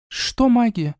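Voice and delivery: a touch of bewilderment; lightly voiced sister, puzzled. A narrator's reading. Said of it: "с недоумением спросила она".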